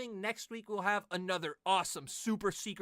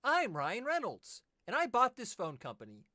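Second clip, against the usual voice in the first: imitating a commercial. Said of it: "commercials that go".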